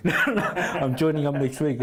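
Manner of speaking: slow words through real laughter; laughing while announcing it, slowly. Real, not acted. Laughing about his decision.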